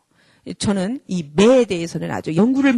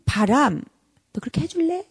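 hesitant request; 4 semitones higher than usual. Shown as a demonstration. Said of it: "아니라".

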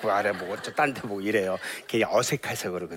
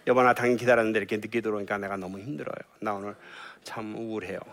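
gentle I-message; faster than usual. Retold or imitated. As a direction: tell him gently how you feel. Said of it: "이게 사망의 말이에요". (늦은 남편에게 조용히 마음을 전하는 부드러운 말투)

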